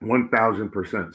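mid-sip, lips on glass; while sipping a drink. Real, not acted. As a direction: talk between sips of beer. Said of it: "Sorry, I'm sipping more".

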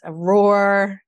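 a short loud roar on the word; demonstrated roar. Shown as a demonstration. Showing the group a sound to exhale with, loud roar. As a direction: let out a roar as the example. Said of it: "make a sound".

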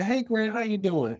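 high-pitched, casual greeting to grandma; colloquial. Retold or imitated. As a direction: greet your grandmother in easy, familiar talk. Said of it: "talking just in a very colloquial way".

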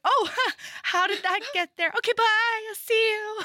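high, loud flustered squeak; giddy high-pitched flustered girl. Retold or imitated. Flustered girl after bumping wall.

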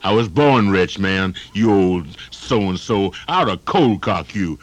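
a brash guy bragging he owns the place; tough building owner. Acted. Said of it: "An elderly tap dancer trapped in an elevator".

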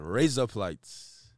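slow Australian-sounding "Raise up lights"; Australian accent. Shown as a demonstration. Showing friends a word trick, subtle Australian accent. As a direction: run "Raise up lights" into Australian "razor blades". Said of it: "razor blades in Australian accent".

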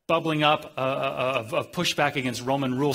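ordinary talk

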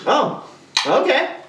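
high, slow sarcastic reply; mock offended. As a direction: play hurt, stretching it out. His reply, acted.

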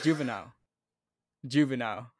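"Juvenile" said clearly, ending in "nile"; corrective pronunciation. Shown as a demonstration. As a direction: model "Juvenile" for a stumbling friend. Correcting friend's botched word.

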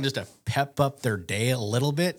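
normal talking voice

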